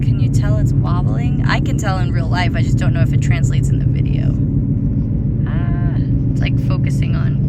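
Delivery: over roaring wind; shouting over wind noise; loud wind noise. Real, not acted.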